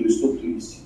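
quiet, low and emotionless; deadpan demo of a blank speaker; expressionless. Shown as a demonstration. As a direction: state each feeling with no expression at all. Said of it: "Tem gente que não expressa nada no semblante".

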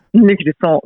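The name with a silent T, ending "sahn"; French pronunciation. Shown as a demonstration. Singer correcting the host, French pronunciation of her name with a laugh. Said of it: "the T is silent".

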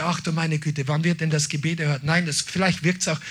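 soft, low, grumbling lament; mock whining. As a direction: sigh out a doubter's complaint. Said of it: "nicht jammernd". (leises, gedrücktes Jammern eines Zweiflers)

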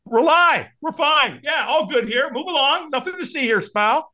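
high, breezy mock reassurance; fake all-fine cover-up. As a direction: wave them off with too-cheerful denial. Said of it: "when we're not okay, what do we say".

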